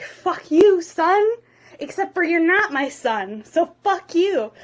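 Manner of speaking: hammed-up fatherly outburst; mock angry dad. Dad brushes off his son's warning, mock angry.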